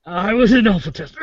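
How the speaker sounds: laughing through the words; guffawing. Real, not acted. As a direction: say it while breaking up laughing. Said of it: "Are you dying or guffawing?".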